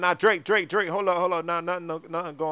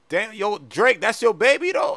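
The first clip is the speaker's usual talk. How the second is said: loud, higher-pitched amazement; astonished; 4 semitones higher, 9 dB louder than usual. Acted. Friend asks Drake about his baby, astonished. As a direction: blurt it out in disbelief.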